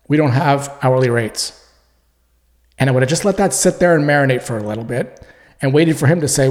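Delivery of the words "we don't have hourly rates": calm voice. Shown as a demonstration. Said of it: "and in a calm voice".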